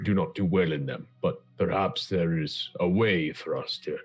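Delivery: lightly voiced, deliberate counsellor; measured adventurer in council. Player speaks as a deliberating character.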